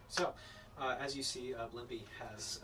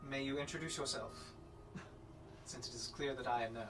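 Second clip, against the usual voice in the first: haughty noblewoman. Acted. GM voices noblewoman.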